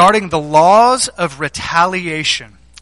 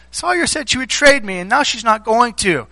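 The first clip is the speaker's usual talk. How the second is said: higher-pitched imitation of a complaining girl; mock tattling child; 4 semitones higher than usual. Daughter telling dad about the broken trade, imitated childish complaint. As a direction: tattle like a wronged little kid.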